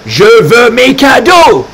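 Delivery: a greedy pup insisting on presents; demanding gifts. Acted. Carlo whining to the reader for his gifts.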